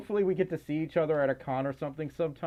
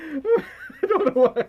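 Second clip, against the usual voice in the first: high, giggling through the words; laughing; 13 semitones higher, 6 dB louder, slower than usual. Real, not acted. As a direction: laugh while talking, a bit slower. Laughing at own voice slip.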